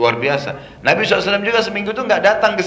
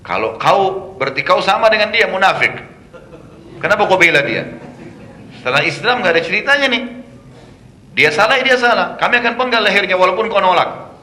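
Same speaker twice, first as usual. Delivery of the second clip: louder, higher, heated shouting; angry accusation; 4 semitones higher, 4 dB louder than usual. Retold or imitated. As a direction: hurl the accusation at him like a brawl. Angry Aus man accuses Usaid. (menuduh dengan marah dan lantang)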